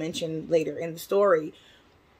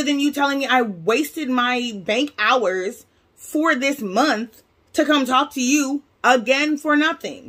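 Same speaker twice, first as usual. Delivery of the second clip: higher-pitched, fed-up grievance at the bank staff; upset retold complaint; 5 semitones higher than usual. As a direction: lay out the wasted hour, exasperated and pitched up. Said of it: "I was so upset".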